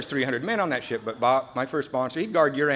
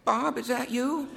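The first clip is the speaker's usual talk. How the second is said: meek voice on the phone; 11 semitones higher, slower than usual. Retold or imitated. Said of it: "You can hear on the other end".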